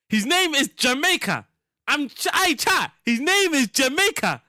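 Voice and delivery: high-pitched, excited announcement to viewers; real excited outburst; excited insistence. Real, not acted. Insisting on the name to chat.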